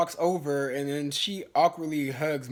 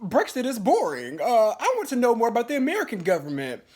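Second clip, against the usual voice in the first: high, mock British accent; 7 semitones higher, 4 dB louder than usual. Kelly answers her date on Brexit, mock British accent. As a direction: imitate her put-on British voice, pitched up. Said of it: "questions Kelly in her British accent".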